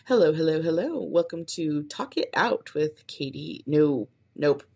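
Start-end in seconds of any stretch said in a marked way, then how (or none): 0.1-3.6 bright sing-song host greeting; upbeat podcast intro. Shown as a demonstration. Podcaster testing her intro, upbeat host voice. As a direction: pitch it like an energetic show opener. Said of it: "so let's try some".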